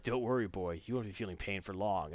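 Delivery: hint of a low, soft villain; lightly voiced soft-spoken menace; menacing villain. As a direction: reassure the boy with quiet mock menace. Villain menaces the trapped boy.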